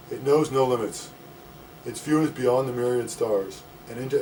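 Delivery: emphatic opening words on each phrase; measured open-mic poem delivery; poetry reading. Acted. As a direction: recite the verse in deliberate, separated phrases. Reading own poem aloud.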